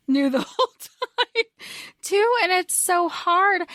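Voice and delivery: real choked-up feeling, pitch climbing; close to crying. Real, not acted. Podcaster aching for a character, close to crying. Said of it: "I can just start crying".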